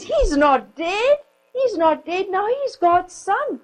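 put-on high, ringing cry of a girl, near tears; a little girl crying out in protest. A narrator's reading. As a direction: proclaim it, eyes flashing. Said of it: "her voice rang out".

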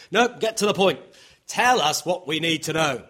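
urgent, punchy insistence; insistent demand. Acted. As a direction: press them to come straight out with it. Voices demand for blunt news.

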